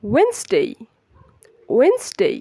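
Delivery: "ওয়েন্সডে" as high "WENS-dey", two syllables; correct pronunciation. Shown as a demonstration. Teacher asking learners to repeat, careful correct pronunciation. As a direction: drop the first d in "ওয়েন্সডে", glide the ending. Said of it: "Repeat after me".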